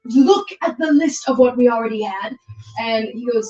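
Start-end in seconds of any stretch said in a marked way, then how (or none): 0.1-2.4 louder, higher, outraged scolding; a father blowing up at his son; furious father. Acted. Father scolds son over creature.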